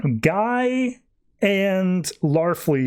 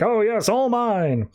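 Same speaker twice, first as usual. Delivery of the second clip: slow, higher, savouring greedy purr; greedy gloat; 6 semitones higher, slower than usual. Retold or imitated. Larfleeze to Supergirl, a slow and higher greedy gloat. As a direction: drag it out like counting treasure.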